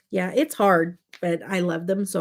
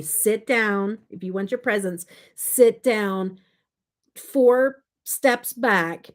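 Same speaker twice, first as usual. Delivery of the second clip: firm order; 3 semitones higher, 4 dB louder, slower than usual. Retold or imitated. Re-enacts ordering excited kids around.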